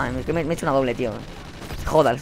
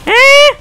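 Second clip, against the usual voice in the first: very high, loud squeal; high-pitched squeal; 7 dB louder than usual. Real, not acted. Player whose enemy won't die, high squeal. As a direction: squeal sharply in disbelief. Startled cry during the match.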